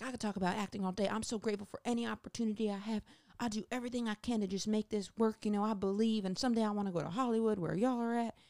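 rushing with giddy gratitude; impersonating eager actress. Retold or imitated. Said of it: "best impersonation I can do".

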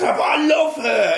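high, loud pleading protest; a mock plea from a lovesick teen; pleading lover. Retelling the game, he plays the lovesick teen's loud plea. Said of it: "And he says".

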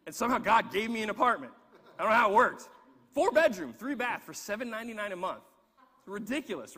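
laughing amazement. Real, not acted. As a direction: burst out with delighted amazement. Amazed retelling of cheap apartment.

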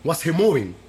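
Dominican accent. Shown as a demonstration. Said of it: "channel Santiago".

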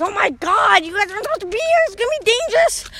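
high-pitched mock panic, climbing; alarmed mother. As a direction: fret at the kids, rising into a hurried squeak. Mother alarmed at stowaway kids.

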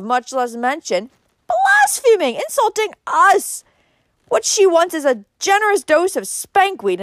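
loud, high-pitched angry rant; indignant snorting. A narrator's reading. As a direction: rant in outrage, building to a high peak. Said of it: "snorted Uncle Benjamin".

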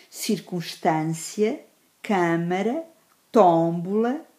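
cântico, ângulo, pântano with a long third-last syllable; careful list, stretched accented vowel in mediterrâneo, circunstância; stress on antepenultimate syllable. Shown as a demonstration. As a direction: dictate câmara, tómbola word by word, leaning on the first syllable. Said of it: "um acento circunflexo".

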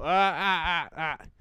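staccato stop-right-there noises; mock interrupting "ah-ah-ah". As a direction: cut them off with short, sharp ahs. Cutting someone off inside the joke.

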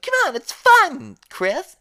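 put-on very high, loud goading kid voice; Jake Tucker. Jake pushing Chris to drink, loud high goading. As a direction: egg him on in a loud, high cartoon voice. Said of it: "Jake's like".

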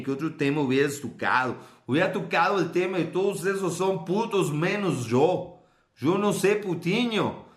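hammed-up Brazilian accent in Spanish. Host as Mauro Favela joking about other topics, Brazilian accent. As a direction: play a Brazilian talking Spanish, sing-song. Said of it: "si se lo hablaba en brasileño".

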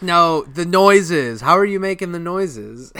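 high, insistent cartoon demand; mock exasperation. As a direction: drag out the words in frustration. Squidward, exasperated, demands an answer.

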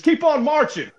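sing-song taunting yell; retold shout. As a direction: fling it down at the marchers. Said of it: "He says".

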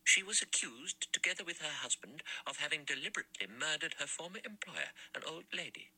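a lightly voiced severe old lady, pressing each word; tight-lipped spinster. A narrator's reading. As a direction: spit it out through tight lips, disapproving. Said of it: "her lips tight and hard".

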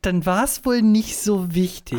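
slow, breathy, condescending whisper; dismissive girlfriend. Retold or imitated. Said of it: "und sie dann". (herablassend geflüstert)

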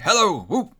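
high, loud joyful whoop; delighted greeting. A narrator's reading. Scrooge hails the turkey at his door, delighted. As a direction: call out with glee.

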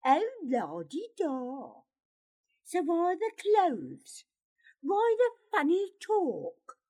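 high, loud jeering challenge; mocking scorn. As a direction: jeer at his airs, climbing in pitch. Pyotr mocks Gerard's talk and clothes.

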